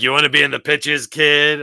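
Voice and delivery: put-on loud, fast old-time showbiz pitch; fast-talking Hollywood agent. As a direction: hustle the new kid. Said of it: "You're like".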